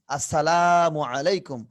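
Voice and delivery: "আসসালামু" with a long held "laa"; slow greeting, stretching লা in "আসসালামু"; drawn-out long vowel. Shown as a demonstration. Teacher models the Arabic greeting with its one-alif pull, stretched. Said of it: "টান আছে এক আলিফ".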